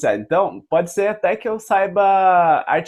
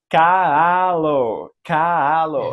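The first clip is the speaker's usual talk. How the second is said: put-on baby talk; 4 dB louder, much slower than usual. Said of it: "ela já tá falando algumas sílabas".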